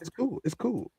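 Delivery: softly imitated reassurance; imitated cool resignation. Man retelling another's accepting words, imitated cool resignation. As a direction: repeat it quietly, as if quoting him. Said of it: "The emphasis on the words that was used was".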